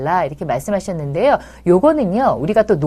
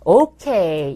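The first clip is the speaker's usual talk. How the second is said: toned-down praise; 2 semitones lower, 3 dB louder, much slower than usual. Shown as a demonstration. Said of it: "이 정도만 돼요".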